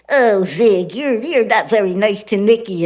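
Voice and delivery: a lightly voiced gentle cartoon dog; Flea the dog's voice. Shown as a demonstration. Creator voicing Flea chiding Gnisi, lightly voiced gentle dog. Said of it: "Flea will say".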